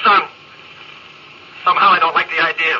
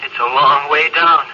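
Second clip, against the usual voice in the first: dread; slower than usual. Acted. Dread of falling forever.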